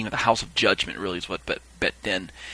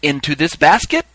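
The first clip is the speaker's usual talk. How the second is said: louder questioning call; 3 semitones higher, 6 dB louder than usual. Retold or imitated. Reaper asking the witnesses, calling out. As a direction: put it to the crowd, rising.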